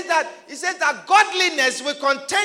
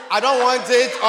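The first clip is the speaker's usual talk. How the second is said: flustered customer; 5 dB louder than usual. Retold or imitated. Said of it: "you don't know to say".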